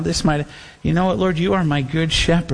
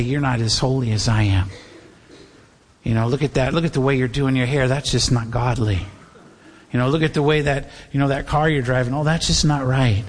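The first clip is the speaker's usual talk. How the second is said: self-righteous churchgoer; 5 semitones lower than usual. Acted. Acting out a self-righteous believer.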